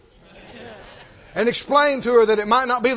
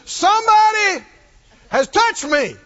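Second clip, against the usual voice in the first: voicing Jesus; 10 semitones higher, 4 dB louder than usual. Jesus speaking in sermon story.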